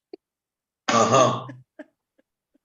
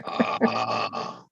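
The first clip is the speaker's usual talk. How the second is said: mock crying; much slower than usual. Mocking the clip's cry of Ah.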